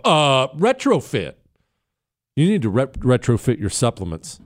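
stall, then draw out "retrofit"; halting mimicry. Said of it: "He had to stop and hold himself up".

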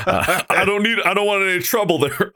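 high-pitched repeat of the line; odd high delivery. Real, not acted. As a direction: lift the voice high, half-joking. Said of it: "I don't know why I said it like that".

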